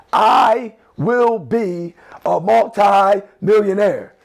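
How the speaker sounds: slow, firm self-affirmation; affirmed with conviction. Shown as a demonstration. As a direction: claim it like you already own it. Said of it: "write it with some, with some possession".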